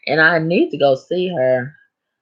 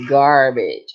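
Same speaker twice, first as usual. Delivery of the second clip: laughing. Real, not acted. Repeating garbage, laughing.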